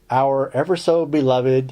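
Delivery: sarcastically doting, deliberately paced; heavy sarcasm. Real, not acted. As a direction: lay on the sarcasm, taking your time. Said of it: "I say that with great sarcasm".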